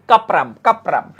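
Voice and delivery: কাপরাম drawn out slowly and repeated; slow repetition. Shown as a demonstration. Teacher slowly repeats the Latin name for students. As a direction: say কাপরাম slowly twice for them to learn. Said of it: "নাম শুনেছ হয়তো তোমরা".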